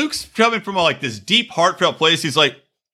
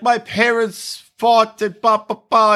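mock whiny Luke; 3 semitones higher, slower than usual. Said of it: "he's like".

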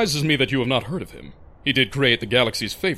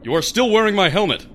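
dopey cartoon bellow; 9 semitones higher, 5 dB louder than usual. Big guy calls out after her.

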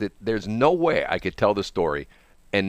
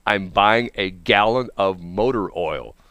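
exasperated, slow; slower than usual. Retold or imitated. Exasperated retort repeated.

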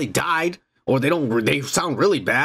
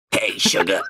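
put-on old lady voice; 8 semitones lower than usual. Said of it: "Like an eighty-year-old lady".

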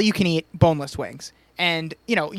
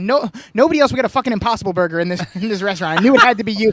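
loud exasperation; 2 semitones higher, 6 dB louder, faster than usual. Retold or imitated. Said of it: "she was like".

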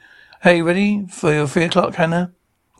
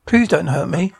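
begging in a voiceless whisper; frightened whisper; 2 semitones higher than usual. Acted. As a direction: plead for your life under your breath. Terrified plea to intruder.

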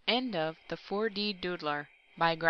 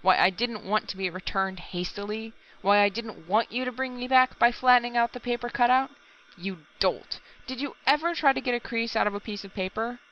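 yelling on; 5 semitones higher than usual. A narrator's reading. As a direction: berate the cringing assistant. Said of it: "he yelled".

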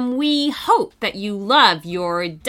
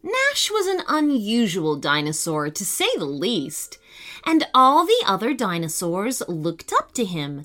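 epic fantasy narrator. Acted. Storytelling narration begins.

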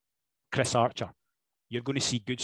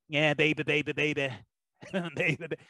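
mock moody rocker; 2 semitones higher than usual. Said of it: "look moody".

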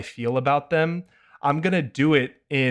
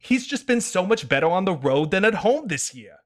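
put-on higher smug whiny kid; a comedian's no fun kid voice; 6 semitones higher than usual. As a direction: correct them like a pedantic child. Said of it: "no fun kid voice".

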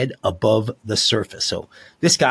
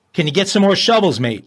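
put-on failed Australian accent; 5 semitones higher, 4 dB louder, faster than usual. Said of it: "Oh, I gotta do that better".

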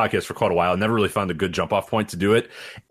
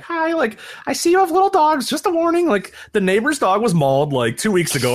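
put-on Chicago accent; 14 semitones higher than usual. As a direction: play up a thick Chicago accent. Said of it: "I like how you said that in a stereotypical Chicago accent".

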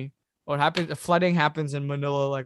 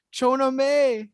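shouted name, pitched up high; retold scream of a name; 9 semitones higher, 6 dB louder, slower than usual. Frantic man shouting for his girlfriend after the quake. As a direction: yell the name across a panicked crowd. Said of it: "he's just screaming".

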